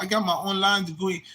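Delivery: high, laughing put-on voice; a mocking take on his boast; mocking Doctor Reggie. Mocking Doctor Reggie bragging about his online degree, high voice. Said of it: "that's how he be talking".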